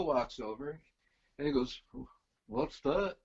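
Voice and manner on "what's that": lightly attempted English accent; terrible English accent. Bandleader asking about the toy, in a mock English accent. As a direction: imitate a rock drummer with a rough English accent. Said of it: "pardon my terrible accent".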